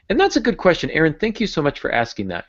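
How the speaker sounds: high, mock-grateful voice as his other self; jokey split-personality reply; answering himself in another voice. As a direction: play the guest thanking the host. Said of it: "multiple personality here".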